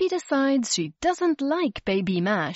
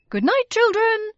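much higher, louder cheery farewell; adults saying goodnight; 13 semitones higher, 6 dB louder than usual. A narrator's reading. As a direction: sing out goodnight as you leave. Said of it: "they said".

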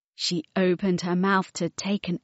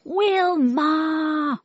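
moaning; 9 semitones higher, 3 dB louder than usual. Acted. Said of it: "moaned sus hermanos y hermanas".

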